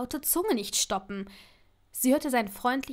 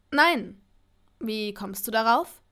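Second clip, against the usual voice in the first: louder, startled no; Malfoy taken aback on the phone; surprised; 4 dB louder, slower than usual. Acted. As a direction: caught off guard, a quick denial. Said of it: "fragte er überrascht".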